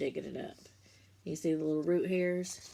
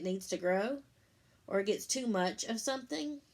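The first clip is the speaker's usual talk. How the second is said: put-on reading to children; 3 semitones higher than usual. Teacher reading the bean book to her class, lilting storybook voice. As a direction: read it like story time for little ones.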